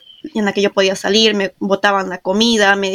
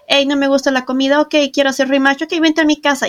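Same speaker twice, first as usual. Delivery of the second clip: lightly voiced, higher, easy-breezy quote; a hint of casual au pair chatter, higher; breezy mock exchange; 5 semitones higher than usual. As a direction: toss it off like it's no big deal. Mocking easygoing agency exchange.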